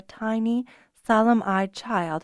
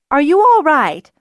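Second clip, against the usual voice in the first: loud, higher anxious question; concerned; 7 semitones higher, 10 dB louder than usual. Acted. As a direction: ask urgently, worried for her. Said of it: "voice was full of concern".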